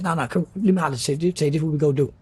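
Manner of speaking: big dude's voice. Retold or imitated. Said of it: "He said".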